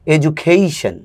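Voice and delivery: "এডুকেশন" as "ed-ju-KAY-shun", stress on the third syllable; the right take of "এডুকেশন"; correct English education. Shown as a demonstration. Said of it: "অ্যাকসেন্টও ঠিক আছে, প্রনাউন্সিয়েশনও ঠিক আছে".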